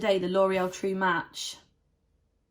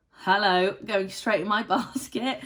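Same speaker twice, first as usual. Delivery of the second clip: loud hello that breaks into a laugh; gleeful, laughing at her own shopping; amused bargain-hunter glee; laughing delight; 4 dB louder than usual. Real, not acted. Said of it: "delighted at a bargain".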